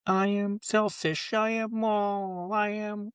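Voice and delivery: slow, high robotic dashboard announcement; car warning voice. Retold or imitated. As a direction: talk like a car's warning system. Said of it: "That's my dashboard impression".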